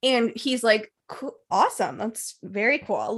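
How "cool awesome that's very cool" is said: imitated polite, restrained approval; very respectful. Kyle answering the brother's hobbies, imitated respectful tone. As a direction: acknowledge it respectfully, softly and slowly. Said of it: "Like, very respectful".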